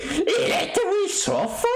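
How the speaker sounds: put-on high, slow Indian accent; imitating a friend in an Indian accent. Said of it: "why the frick did I just give you an Indian accent".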